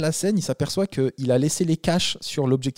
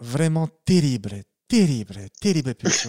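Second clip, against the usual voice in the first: mock Rocco; 2 semitones higher, 3 dB louder than usual. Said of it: "il me tue quand il dit terrible".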